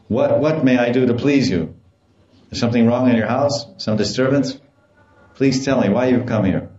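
mildly official, formal questioning; a touch of impersonal policeman politeness. Acted. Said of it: "in a very official, indifferent, impersonal way".

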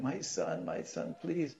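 high, pleading voice of a weeping mother; mock-tearful begging; imitated crying plea. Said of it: "crying, crying".

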